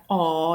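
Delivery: aw with the mouth wide open. Shown as a demonstration. Teacher shows the vowel in "saw", open-mouthed aw. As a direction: open right up and put aw out there. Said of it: "really opening your mouth".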